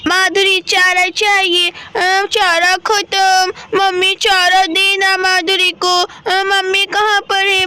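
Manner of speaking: a hint of a child character, slowly drawn out; slow, measured story-boy voice, lightly done; lightly voiced little Shivam. Voices boy Shivam seeking his mother. (हल्की-सी बच्चे शिवम की धीमी आवाज़)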